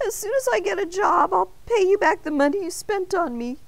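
a small high voice making a brave promise; high donut voice. A narrator's reading. Arnie the donut promising Mister Bing, high and earnest.

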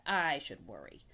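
slow, drawn-out scoff; sarcastic rat. Acted. Rat refuses to care.

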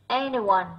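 anyone stressed on "an"; first-syllable stress. Shown as a demonstration. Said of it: "âm một". (nhấn âm tiết đầu của anyone)

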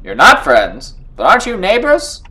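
loud, incredulous cartoon questioning; high comic disbelief; Terrence and Phillip voice. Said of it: "give him the Terrence and Phillip voice".

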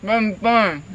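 words mashed by a packed mouth; cheeks stuffed full. Real, not acted. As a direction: barely get it out past the marshmallows. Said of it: "Now try saying chubby bunny".

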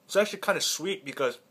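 talking while chewing; eating and explaining; mouth full of pizza. Real, not acted. Seen 1: Chews after bite from -7; mouth works at 0-1.9, then camera shows pizza.

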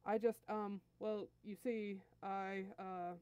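halting, stammered excuse; slow, trailing-off fumble for words; hesitant stalling. Acted. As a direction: stall nervously before confessing. Nappa stalls before the angry prince.

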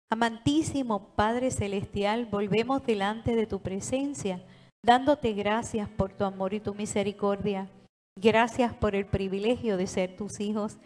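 earnest prayer voice addressed to God; closing prayer. Real, not acted. Pastor leads the church in closing prayer, reverent prayer voice. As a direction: pray it in steady reverent earnest.

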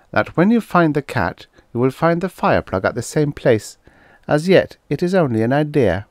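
put-on high, prim child voice; a solemn eight-year-old, pitched high; precocious little girl. Girl answering the policeman, high and prim. Clarissa advises the officer.

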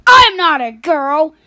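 put-on offended kid protesting loudly; indignant denial. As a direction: push back hard, offended. Argument over being a girl.

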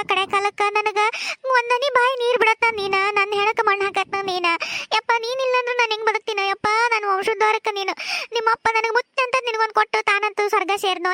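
lamenting mother. Acted. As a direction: plead with the son not to leave. Mother figure laments to son. (ಮಗನನ್ನು ಬೇಡಿಕೊಳ್ಳುವ ತಾಯಿಯ ಹಗುರವಾದ ಗೋಳು)

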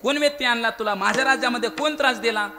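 king angrily promising punishment; Rama demanding a name. Acted. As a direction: order him to name the culprit. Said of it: "रामचंद्रांनी सांगितलं".

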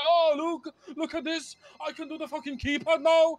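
high, smug mock of the traitor. Mimicking the deserter returning to brag, high mocking voice. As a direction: imitate him bragging back. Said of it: "And fucking come back".

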